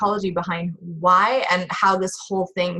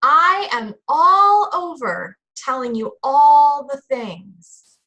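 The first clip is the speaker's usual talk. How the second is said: high, hammed-up Southern charm; Southern drawl; 3 semitones higher, slower than usual. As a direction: pour on a mock Southern drawl. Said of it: "I can start the Southern drawl in it too".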